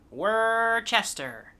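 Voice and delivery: Worcester said slowly as WUR-chester; Worcester spelled out in sound, unhurried. Shown as a demonstration. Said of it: "it's spelled like you would pronounce the name".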